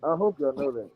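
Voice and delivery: muffled, as if through a wall. Real, not acted. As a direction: talk with a muffled mic. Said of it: "you sound muffled".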